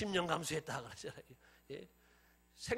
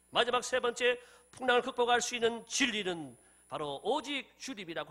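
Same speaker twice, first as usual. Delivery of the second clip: raised, emphatic preaching voice; 4 semitones higher, 8 dB louder than usual. Acted. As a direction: proclaim it with full conviction. (힘주어 외치는 설교)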